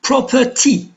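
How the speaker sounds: PRO-per-ty, first syllable of "Property" lifted; stress on first syllable. Shown as a demonstration. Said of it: "the stress is on the first syllable".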